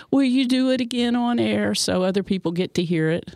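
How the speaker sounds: lightly whiny pleading; a hint of a whine. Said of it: "In, in my little whiny voice".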